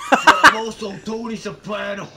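laughing boast. Pretend. Venom voice joke.

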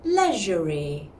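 legeré with an added ending, slowly; wrong take, legeré drawn out; mispronounced legeré. Shown as a demonstration. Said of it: "most mispronounced sounds".

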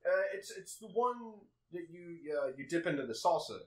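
a hint of a puzzled lady customer; imitating a lady customer. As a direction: stumble through a description as the customer. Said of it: "there used to be a lady".

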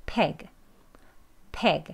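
팩 with an open 에 vowel, close to 패그; low, isolated model word 팩; correct pronunciation demo. Shown as a demonstration. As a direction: say 팩 with a short e and voiced g ending. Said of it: "약간 패그 소리가 들리는 팩".

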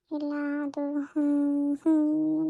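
crying while protesting innocence; tearful sobbing. Acted. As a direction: plead through tears, voice breaking. Scolded daughter breaks down crying.

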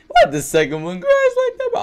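very high, laughing squeal; squeaky laughing frustration; laughing disbelief. Real, not acted. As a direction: laugh out the words in exasperation.

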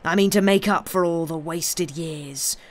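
menacing. Acted. Avenger states his demands.

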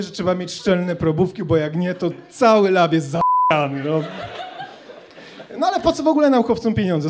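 usual speaking voice

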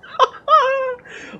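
very high, loud wailing laugh; hysterical cry-laugh. Real, not acted. Gamer seeing the boss rush, hysterical cry-laugh. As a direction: break into a desperate laugh. Hysterical after reading challenge.

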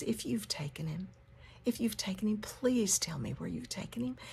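hushed, mildly acted plea; understated, earnest entreaty; pleading. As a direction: beg softly for an answer. Mary pleads with the supposed gardener.

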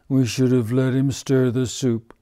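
a touch of sniffly regret; understated tearful squirrel; sniffing squirrel. Acted. The squirrel regrets over supper, a little sniffly. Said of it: "sniffed the squirrel".

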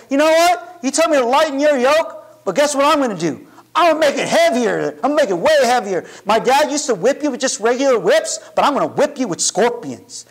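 a touch of a taunting king's threat; lightly voiced Rehoboam. King answering the people who want a lighter yoke, mildly taunting. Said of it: "that's how he talks".

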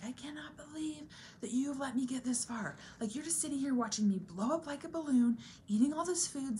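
high-pitched, loud accusing rant at her husband; retold angry rant. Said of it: "I'd get really worked up and really angry, and I'd be crying and yelling".

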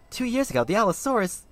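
high, stunned echo of the words; surprised. Acted. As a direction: repeat it in disbelief. Kid stunned by the memory.

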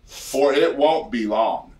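mock game show announcer. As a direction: croon the lines like a showy emcee. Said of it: "in a game show voice".

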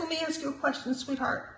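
soft, tender quoted reply; hushed and kindly; gently consoling. Retold or imitated. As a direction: speak softly, as to someone crying. Consoling a crying woman.

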